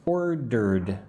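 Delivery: "Ordered" in two clear parts, OR-derd; two-part pronunciation. Shown as a demonstration. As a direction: split "Ordered" evenly into two syllables. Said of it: "like it has two parts".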